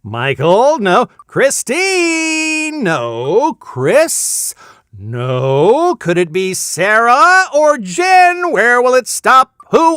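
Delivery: high, loud, suspense-milking play-by-play; frantic game-show announcer. Pretend. Host calls names on a spinning prize wheel, excited announcer. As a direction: shout each name as the wheel ticks past, stretching some.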